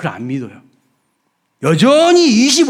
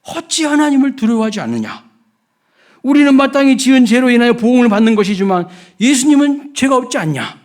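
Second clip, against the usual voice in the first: raised, high reproachful voice; acted rebuke; 6 semitones higher than usual. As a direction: reproach the other robber, building in force. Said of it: "다른 쪽 강도에게".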